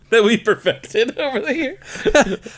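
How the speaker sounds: slow, laughing mock announcer; laughing ad parody. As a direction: drawl it through laughter.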